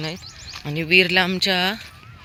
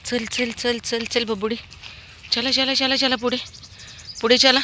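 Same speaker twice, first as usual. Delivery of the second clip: high repeated "chal" pet-talk; urging dogs on; 7 semitones higher than usual. Real, not acted. Walker urges her dogs forward, high coaxing calls. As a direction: coax the pack forward up the path.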